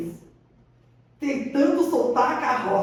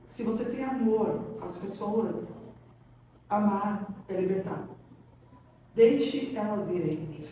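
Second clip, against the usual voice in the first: soft and slow, quieter; tender, unhurried advice; gentle teacher; 3 semitones lower, 4 dB quieter, slower than usual. Retold or imitated. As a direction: say it gently, like comforting a student. Quoting the yoga teacher.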